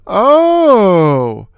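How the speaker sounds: fast, mocking jab; wisecrack. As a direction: crack it like a Stooge insult. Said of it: "Mo cracked".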